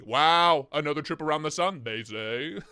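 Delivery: lightly mimicked goofy British robot reading; imitating British TTS. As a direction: parrot the text-to-speech voice's goofy tune. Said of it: "His intonation's so goofy".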